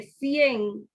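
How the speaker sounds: cien drawn out slowly as one syllable; slow demo. Shown as a demonstration. Teacher slowly showing cien as one syllable. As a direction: stretch cien out so the class hears one syllable. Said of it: "Yo no puedo poner si y e y la en aparte".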